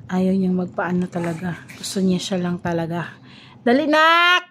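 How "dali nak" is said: loud, raised call to hurry up. Real, not acted. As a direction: call out higher and louder, urging them on. Hurrying her child along. (nagmamadaling tawag sa anak, malakas)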